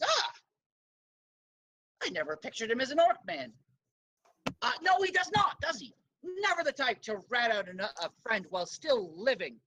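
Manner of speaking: put-on light Cajun accent, lively pitch swings. Bone Man recognises his old friend's child, light Cajun accent. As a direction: roguish guildmaster with a hint of Cajun. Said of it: "I was gonna do a Cajun accent for him".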